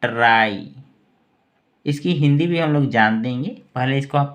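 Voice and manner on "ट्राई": ट्राई said firmly with a long falling "aai"; pronunciation demo. Shown as a demonstration. Teacher answering what this is called, careful demo of ट्राई. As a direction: model ट्राई as one emphatic word. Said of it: "इसको क्या कहेंगे".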